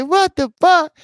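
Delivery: high, loud startled "What the fuck?". Retold or imitated. Voicing the naked viewer jumping up, startled yelp. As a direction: yelp it like you're caught.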